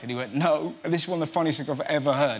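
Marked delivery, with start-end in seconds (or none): 0.4-0.8 firm West Country "no"; blunt refusal in a West Country voice; West Country accent. Retold or imitated. New father asked if it was great, West Country accent. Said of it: "you're doing the West Country accent there".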